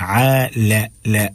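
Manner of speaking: "لا" said light and thin, like leh; thin laam. Shown as a demonstration. Teacher drilling the syllable for learners, thin laam. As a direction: keep "لا" thin, never rounded. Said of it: "باریک کر کے پڑھنا ہے".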